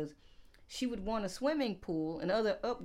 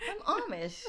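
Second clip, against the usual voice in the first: mock claim, laughing; 10 semitones higher, faster than usual. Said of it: "That's me".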